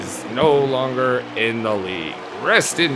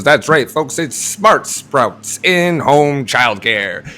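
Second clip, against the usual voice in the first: ad read. Acted. Sponsor ad read.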